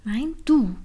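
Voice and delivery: loud teasing back-and-forth; playful shouting. Acted. The two bicker in a snowball fight, loud and playful. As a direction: shout it as a giggly tease.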